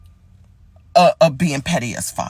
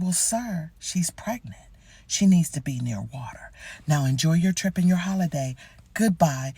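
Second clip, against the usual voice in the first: quiet, dead-serious deadpan; soft fake sincerity to troll him; feigned solemn calm; mock serious; 5 dB quieter than usual. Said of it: "with all seriousness in my voice".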